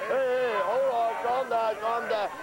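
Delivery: normal talking voice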